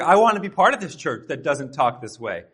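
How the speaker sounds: loud, eager retelling of a newcomer; impressed enthusiasm. Retold or imitated. Newcomer won over by a church without gossip, impressed. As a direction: burst out with wholehearted enthusiasm. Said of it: "was so surprised and so impressed".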